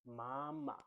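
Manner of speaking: MAMA with a long, level first MA. Shown as a demonstration. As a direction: Mandarin first tone on MAMA, second syllable short. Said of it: "we are using the first tone".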